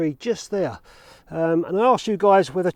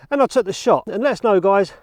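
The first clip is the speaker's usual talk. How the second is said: breathless after cycling; winded, pushing words out; out of breath; 5 dB louder than usual. Real, not acted. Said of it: "I'm out of breath from that bike".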